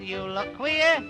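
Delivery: ordinary delivery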